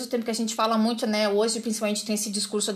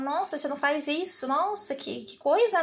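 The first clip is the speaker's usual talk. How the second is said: slightly softened, sly mock disapproval; subtle venom; 3 semitones higher than usual. Imitating critics who mix venom in, mock subtle disapproval. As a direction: slip in the little poison delicately. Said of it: "Aquele veneninho, assim, que vem".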